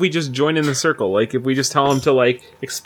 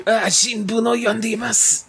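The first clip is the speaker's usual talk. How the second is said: higher anime exclamation; dramatic dying line, hammed up; having a heart attack; 9 semitones higher than usual. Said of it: "say something in Japanese, and then I'll just explode".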